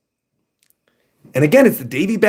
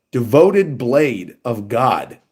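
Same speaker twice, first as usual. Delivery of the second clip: epic title; 4 semitones lower, much slower than usual. Shown as a demonstration. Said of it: "Elden Ring sounding title".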